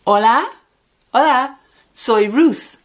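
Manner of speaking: bright rising "hola, hola" as if answering a call; cheery phone greeting. Shown as a demonstration. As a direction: greet a friend on the phone warmly. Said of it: "Comenzamos con".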